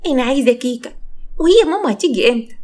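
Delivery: put-on high, whiny child asking for cake and mama; little girl voice. Little girl asks for mother.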